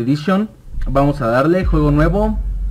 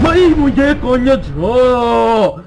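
high, loud startled cry; scared shriek; 9 semitones higher, 5 dB louder, slower than usual. Real, not acted. Susto con el muñeco. (chillido agudo de susto)

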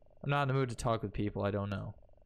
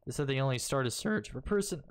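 voice crack. Real, not acted. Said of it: "ugh, voice crack".

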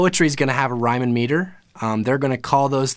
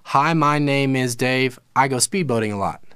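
"Hi, my name is Dave" slow, then "I go speedboating a lot" quicker. Shown as a demonstration. Teacher showing a student a shift from slow meter to quick tempo. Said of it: "a very slow meter into a very quick tempo".

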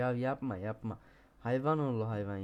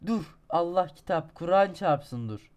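higher, loud begging; desperate pleading; 4 semitones higher, 9 dB louder than usual. Real, not acted. Gamer begging his falling climber to stop, desperate. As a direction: plead with the game.

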